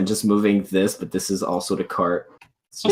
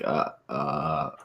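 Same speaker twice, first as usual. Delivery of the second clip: nervous stutter; much slower than usual. Acted. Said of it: "stutter a bit".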